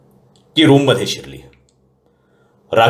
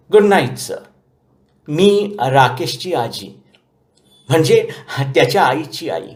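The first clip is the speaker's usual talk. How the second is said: much higher, slow, dignified granny voice; proud old grandmother; 6 semitones higher than usual. A narrator's reading. Grandmother introducing herself to the manager, proud. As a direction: introduce yourself like a proud retired executive.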